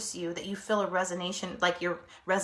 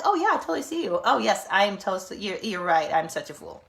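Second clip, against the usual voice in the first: mock agreeing; 5 dB louder than usual. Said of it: "be like".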